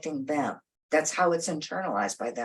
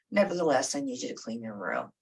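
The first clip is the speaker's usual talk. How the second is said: calm broken record; 5 semitones lower, faster than usual. Retold or imitated. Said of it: "become a broken record".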